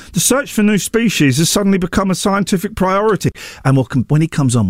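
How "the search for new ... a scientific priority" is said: lightly put-on expert voice, a bit higher; a hint of a serious scientist quoting; Andy McGrath voice. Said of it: "compare his voice with the one I'm doing".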